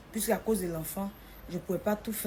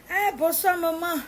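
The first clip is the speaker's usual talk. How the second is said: sweet greeting; 9 semitones higher, 6 dB louder, slower than usual. Retold or imitated. Young woman greets the mother.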